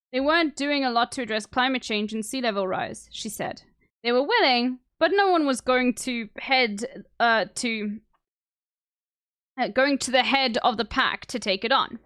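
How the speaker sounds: talking while chewing gum; words round a wad of gum. Real, not acted. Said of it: "Let me get rid of my gum".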